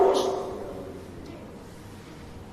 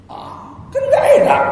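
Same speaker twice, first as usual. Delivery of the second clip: whispered aside; 5 dB louder than usual. Real, not acted.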